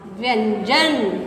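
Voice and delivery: slow, stretched व्यंजन; slow dictation of a word; drawn-out dictation. Shown as a demonstration. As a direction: drag out व्यंजन syllable by syllable. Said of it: "dictating heading slowly".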